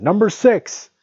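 very high, loud television cry. A narrator's reading. Man on television repeating his number, high-pitched shout. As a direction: pitch it right up and call out. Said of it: "cried the man on television".

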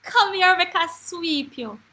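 put-on high, slow, loud child's voice; imitated little grandniece. Five-year-old grandniece taunting her aunt, high drawn-out child's voice. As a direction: draw out the taunt like a little girl. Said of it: "She said".

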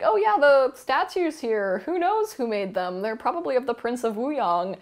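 covering up with a light innocent tone; mock shifty deflecting. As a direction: play dumb, airy and evasive. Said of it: "And he's like".

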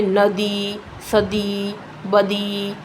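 ਨਦੀ, ਸਦੀ, ਬਦੀ slowly, each final "ee" held long; lengthened final vowel. Shown as a demonstration. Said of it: "ਥੋੜ੍ਹਾ ਜਿਹਾ ਜ਼ੋਰ ਦੇਈਏ".

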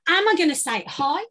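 "Am I gonna say hi?" lifted, ending on a rise; said high. Shown as a demonstration. Coach showing actors a high delivery of a line. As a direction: pitch the question up and let it climb. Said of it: "have a look at that line and think".

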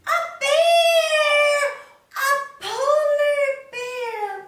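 high, loud, sustained announcement; excited reveal. Shown as a demonstration. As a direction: call out the surprise animal with delight. Revealing the animal to children.

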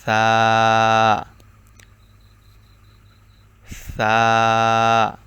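সা with tongue tip at the tips of the upper teeth, soft; soft tha demo. Shown as a demonstration. Teacher demonstrating the letter, soft. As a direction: lisp it softly, tongue on teeth. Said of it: "সা এর উচ্চারণ হলো".

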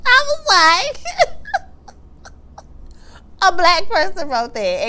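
high laughing almost crying; laughing hard. Real, not acted. Viewer cracking up at the read, laughing almost to tears. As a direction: laugh helplessly through the words.

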